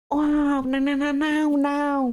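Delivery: muffled words through a gag; mumbling through the gag; gagged boy. Acted. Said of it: "il vous dit un truc en anglais".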